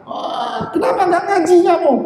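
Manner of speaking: a neighbor tugging the kid's ear, half-acted; mock scolding neighbor. Preacher voicing a neighbor scolding a boy, quick mock scold.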